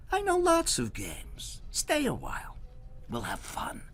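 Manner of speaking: high, pleading call; Herschel pleading. Acted. Herschel begs the goblin to stay, pleading. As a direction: beg him to stay, high.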